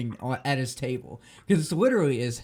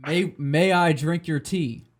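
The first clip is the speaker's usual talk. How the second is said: slow mock host; 4 semitones higher, 5 dB louder, slower than usual. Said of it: "he's like".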